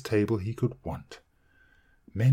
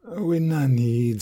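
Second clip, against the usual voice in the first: slow, heavy, curt refusal; taciturn giant; 6 semitones higher, 5 dB louder, slower than usual. A narrator's reading. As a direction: lay down the words like stones. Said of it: "replied the taciturn giant".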